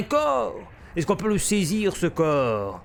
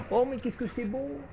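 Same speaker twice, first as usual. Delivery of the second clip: hushed awe; 7 semitones higher, 9 dB quieter than usual. Real, not acted. Admiring the dry-ice effect.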